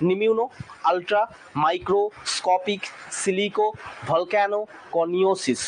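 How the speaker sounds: each part of the word said on its own with a pause; careful teacher demo; syllable by syllable. Shown as a demonstration. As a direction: split নিমিউনো, আলট্রা into separate pieces. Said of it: "উচ্চারণ দুটো আরেকবার বলবো".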